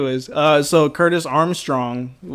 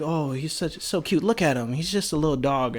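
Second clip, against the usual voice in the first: soft, cooing over a cute dog; softly imitating the assistant's baby talk; mock cooing; 6 dB quieter than usual. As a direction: coo at the little dog.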